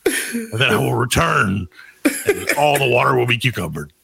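lightly hammed sister vowing to return; mock solemn vow. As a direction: declare it like a quest hero. Sister's Indiana Jones vow.

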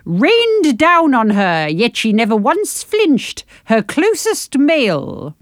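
slow reading. Shown as a demonstration. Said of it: "Shall I do the other two lines?".

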